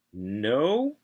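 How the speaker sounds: NO rising high like a question; squeaked-out no. A narrator's reading. Kid answering a drug question, squeaking upward. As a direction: let NO squeak upward, unsure. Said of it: "I don't mean it to sound like a question, but it squeaks out".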